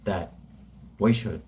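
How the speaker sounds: ponderous speech, a few words at a time; Tony Abbott. Acted. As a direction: drag it out with long pauses between phrases. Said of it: "Do a Tony Abbott".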